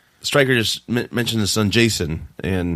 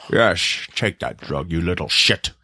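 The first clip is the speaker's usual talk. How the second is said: Sean Connery; 4 semitones lower, slower than usual. Acted. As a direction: lower mock Scottish film-star voice. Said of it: "Why do I sound like Sean Connery now?".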